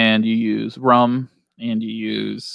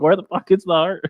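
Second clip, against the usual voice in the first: higher-pitched, through laughter; amused mock exclamation; 7 semitones higher than usual. Joking about the stabbed deer heart, laughing and high-pitched.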